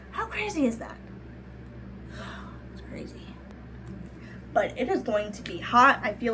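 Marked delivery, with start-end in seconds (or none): 0.1-1.0 squealing amazement. Real, not acted. Higher repeat. 2.1-3.2 whispering. Real, not acted. Whispered after sigh.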